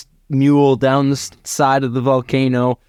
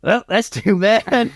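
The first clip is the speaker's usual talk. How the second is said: slow, higher-pitched taunt; mock sympathy; 8 semitones higher, slower than usual. Cowboy father after the empty gun clicks, slow mock sympathy. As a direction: draw it out high and smug.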